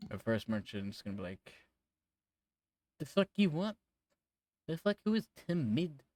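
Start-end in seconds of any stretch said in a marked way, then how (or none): 3.0-6.0 high, loud rude merchant bark; rude merchant yelling. Acted. A rude merchant yells at the party, high and loud. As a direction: snap at the strangers, high and loud.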